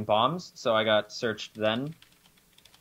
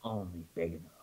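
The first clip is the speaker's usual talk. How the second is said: mock cowboy showdown; 3 semitones lower, 4 dB quieter, slower than usual. Mock western showdown after cowboy talk.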